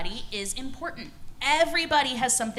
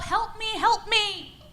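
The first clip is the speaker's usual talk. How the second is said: high mock cry for help; 9 semitones higher, slower than usual. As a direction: play a trapped lion pleading in a high voice. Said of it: "he's crying out for help".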